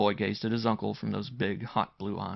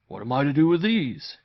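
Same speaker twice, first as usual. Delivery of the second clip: high, loud exclamation from the uncle; loud, raised, astonished question; excited cry; 6 semitones higher, 9 dB louder than usual. A narrator's reading. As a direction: cry it out in amazement to your nephew. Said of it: "he cried".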